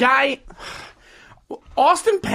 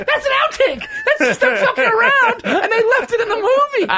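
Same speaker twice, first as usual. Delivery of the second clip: laughing hard, much higher; can barely get the words out for laughing; cracking up over a blooper left in the film; 13 semitones higher than usual. Real, not acted.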